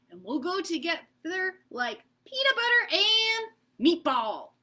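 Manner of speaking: lightly voiced eager child asking to play; eager kid voice. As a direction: pitch it up like a keen little kid. Peanut Butter greets Meatball.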